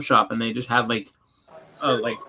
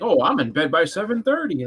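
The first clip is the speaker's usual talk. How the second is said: higher, smug imitation of an early-to-bed type; mock boast; 5 semitones higher than usual. Mocking people who celebrate early bedtimes, smug mock boast. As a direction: lift the voice, prim and pleased with "seven thirty".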